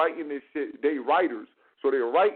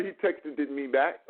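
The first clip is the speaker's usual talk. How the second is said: written language; 4 semitones lower than usual. Retold or imitated. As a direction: lower mock recital of written text. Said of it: "you don't speak like that".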